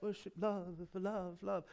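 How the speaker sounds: mock chant, starting full and trailing away; mimicking love-obsessed people. Preacher mimicking people who go around saying love, mocking and fading. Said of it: "people go around saying".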